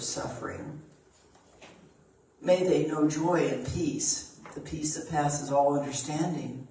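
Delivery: measured devotional reading voice; spiritual reading. Acted. Reader offering an embodiment to the congregation, devotional reading. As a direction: read it like a blessing, steady and earnest. Reads a spiritual text aloud.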